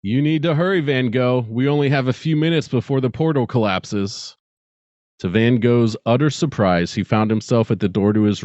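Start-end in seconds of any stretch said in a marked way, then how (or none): 0.0-4.4 higher, hurried stranger's voice; a lightly voiced urgent alien; urgent visitor. A narrator's reading. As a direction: press him to hurry before it's too late. The voice spoke again.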